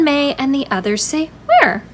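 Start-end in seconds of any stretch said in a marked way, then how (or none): 1.4-1.8 excited question. Acted. Children asking, excited.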